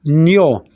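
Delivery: "Nio" as one isolated syllable, nyo; "Nio", n gliding into yo; ñ plus O sound. Shown as a demonstration. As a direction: model "Nio" clearly for a learner. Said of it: "the sound will be".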